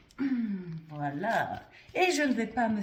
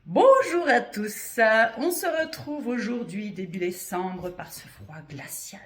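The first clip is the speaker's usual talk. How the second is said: spooky horror-film voice; 7 dB louder than usual. Pretend. Vlogger greeting viewers after a horror film, creepy put-on voice. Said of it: "c'est pour ça que je parle comme ça".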